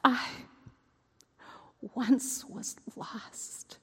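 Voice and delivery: slow hushed whisper. Acted. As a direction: breathe it out slowly. Quiet realization.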